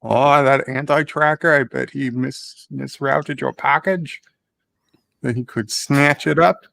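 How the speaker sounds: put-on accent with a hint of New York. Radio guest guessing about a misrouted package, hint of New York accent. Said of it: "got a little New York accent in there".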